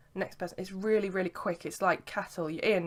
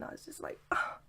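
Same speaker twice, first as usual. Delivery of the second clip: whispering; 7 dB quieter than usual. Real, not acted. Whispered memory of cuddle.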